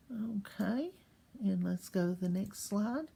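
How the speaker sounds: whispered okay. Real, not acted. Teacher aside while switching slides, whispered. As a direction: breathe it, no voice. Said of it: "aside while switching".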